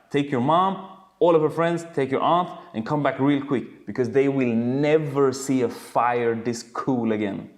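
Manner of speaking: loud, high, eager command; excited urging. Retold or imitated. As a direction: hurry him off, thrilled by the blaze. Edison urging son to fetch everyone.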